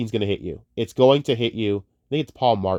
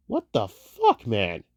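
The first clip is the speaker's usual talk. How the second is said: mock stunned outburst; much slower than usual. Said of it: "and you're going".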